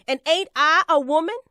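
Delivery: fast and loud, rising on woman; defiant refrain, called out; loud rhetorical challenge. Acted. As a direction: throw the question at the hall. Rousing refrain to the crowd.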